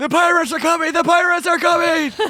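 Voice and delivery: very high-pitched, loud, alarmed yell. Voicing a character ringing the ship's alarm bell at night: yelling an alarm. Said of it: "and yells".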